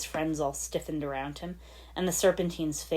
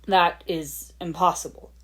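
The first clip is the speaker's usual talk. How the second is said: firm; 6 dB louder than usual. Acted. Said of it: "he said firmly".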